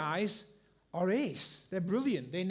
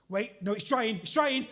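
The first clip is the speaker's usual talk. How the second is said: rising, louder alarm; sudden realisation it's going wrong; retold alarm; 4 semitones higher, 6 dB louder than usual. Plaster drying again.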